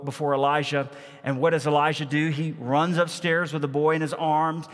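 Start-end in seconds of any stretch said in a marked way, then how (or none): 2.3-4.7 building sermon. Acted. Pastor to congregation, mounting sermon intensity. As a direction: build the story toward the prayer. Preaching builds as story climaxes.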